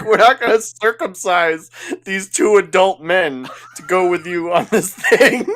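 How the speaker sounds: high, loud imitated disbelief; mock incredulous. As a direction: protest in hammed-up disbelief, laughter creeping in. Retold gangsters balk at absurd demand.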